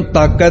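ਤਾਕੈ said with a tight, doubled k; tight doubled consonant. Shown as a demonstration. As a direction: press hard on the k of ਤਾਕੈ, as with an adhak. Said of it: "ਅਦਕ ਸਹਿਤ ਪਾਠ ਇਹਨੂੰ ਕੱਸ ਕੇ ਬੋਲਣਾ". (ਤਾਕੈ ਨੂੰ ਅਦਕ ਸਹਿਤ ਕੱਸ ਕੇ ਬੋਲੋ)

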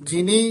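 "ਜਿਨੀ" rising, set apart; yamak pause. Shown as a demonstration. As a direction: hang briefly after "ਜਿਨੀ". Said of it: "ਇੱਥੇ ਯਮਕ ਲਾ ਦੇਣੀ ਹੈ".

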